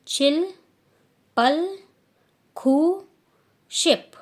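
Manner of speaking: loud, clear Korean count to ten; repeat after me. Shown as a demonstration. Teacher asks students to try saying the numbers, loud drill. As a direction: call out each number for the class to echo. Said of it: "चलो आप लोग भी कोशिश करो अब बोलने की".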